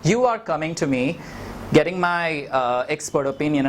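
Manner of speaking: dry mock-serious tone; sarcastic. Real, not acted. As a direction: say it with light irony. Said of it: "I'm being sarcastic".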